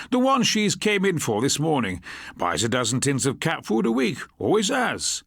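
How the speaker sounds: a talkative shopkeeper answering eagerly; chatty shopkeeper. Acted. Shopkeeper quoted in dialogue.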